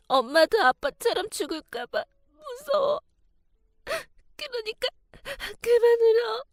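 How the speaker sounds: put-on high, tearful child pleading with his mother; crying little boy. Scared son begging his weeping mother to stop, crying. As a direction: beg through tears like a scared small boy.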